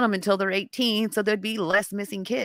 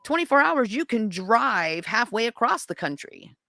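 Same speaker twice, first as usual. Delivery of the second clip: incredulous; 4 semitones higher than usual. Retold or imitated. Keeps protesting the police waiting rule.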